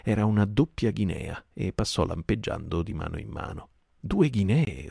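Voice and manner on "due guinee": loud, higher angry roar at Silver; roaring pirate. Acted. Merry rages at Silver over the coin, angry roar. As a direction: bellow it, brandishing the coin. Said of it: "ruggì Mary".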